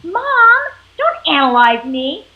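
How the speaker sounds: put-on high, loud protest of an eleven-year-old; annoyed kid. Daughter pushes back at mom, loud and annoyed. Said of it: "they're gonna be like".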